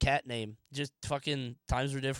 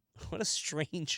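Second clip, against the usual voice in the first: usual speaking voice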